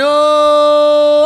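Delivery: long held "oh" on one level note; droning, drawn-out mock wail; mock prayer wail. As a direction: imitate worshippers wailing in prayer. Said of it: "అంటారు ఇక అంతే".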